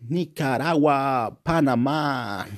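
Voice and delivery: slow, playful roll-call of places; drawn-out place names. Pretend. Vlogger reeling off South American place names, slow and drawn-out. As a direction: stretch each name out slowly, savouring the vowels.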